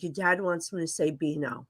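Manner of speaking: low, soft, reluctant delivery; grudgingly relaying an embarrassing message. Retold or imitated. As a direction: say it as if you'd rather not. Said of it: "This really reluctant".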